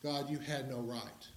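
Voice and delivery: barely voiced challenge to God; hushed defiance. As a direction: say it low, as if daring not to. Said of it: "at saying to God".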